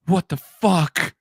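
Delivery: high, very slow disbelief; a touch of shocked realization; mock dismay. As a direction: stretch it out in horror at himself. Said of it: "I sound like my father".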